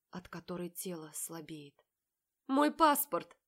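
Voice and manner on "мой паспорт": loud, higher, smirking announcement. A narrator's reading. Marat smirks at Polly while accusing her. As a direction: grin through it and hit it high. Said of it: "ухмыляется Марат".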